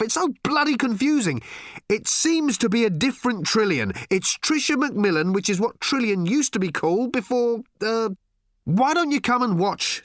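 bewildered shouting from the next room; calling out confused. A narrator's reading. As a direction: call it across, exasperated and muddled. Arthur calling to Ford, confused.

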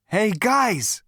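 high, loud, brash character voice; Zaphod. Acted. Zaphod's figure voice in the story.

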